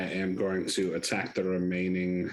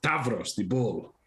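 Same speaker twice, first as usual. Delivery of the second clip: slow, heroic challenge called out; calling out a challenge; 4 semitones higher than usual. Acted. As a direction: call down to him, proud and slow. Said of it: "I will call down to, um, Castolfo and say".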